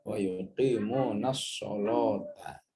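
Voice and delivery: "sholata" slow, with the lam made heavy after shad; "Wa yuqimunas sholata" with a dark, thick lam. Shown as a demonstration. Teacher repeating the heavy-lam "sholata". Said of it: "maka lamnya ikut isti'la".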